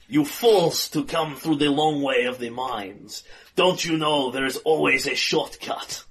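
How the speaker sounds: villain voice. Acted.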